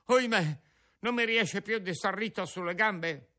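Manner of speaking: panicked cry for help. Acted. Lucignolo collapses, cries for help.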